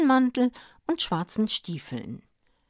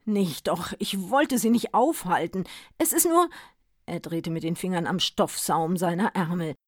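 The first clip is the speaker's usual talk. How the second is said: lightly voiced weary Santa. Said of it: "Santa speaks, hesitant".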